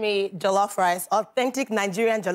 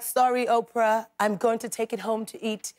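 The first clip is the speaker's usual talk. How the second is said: lightly attempted British accent; very bad British accent. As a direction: try a polite British accent, badly.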